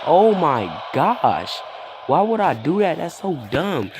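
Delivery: high, drawn-out exasperation; exasperated self-reproach. Retold or imitated. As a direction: stretch the opening, scold yourself in a high voice. Berates himself for trusting her again.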